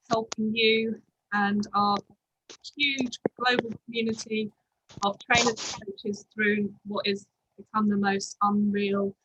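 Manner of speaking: muffled voice, as if covered. Real, not acted. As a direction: speak through a muffled mic. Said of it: "I'm a little bit, um, muffled".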